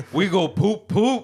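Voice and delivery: put-on high playful child voice; childish sing-song. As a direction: chant it like a little kid.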